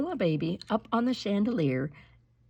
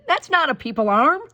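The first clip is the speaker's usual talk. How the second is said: high, louder protest; indignant child; 9 semitones higher, 7 dB louder than usual. Acted. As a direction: insist it's not her brother. Kristen protests.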